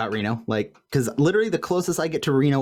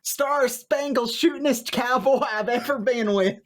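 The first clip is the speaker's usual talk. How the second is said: put-on girlfriend's letter voice; 10 semitones higher than usual. Reads the girlfriend's letter aloud.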